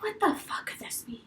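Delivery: baffled whispered question; puzzled whisper. Retold or imitated. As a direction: whisper your confusion. Hearing a strange sound.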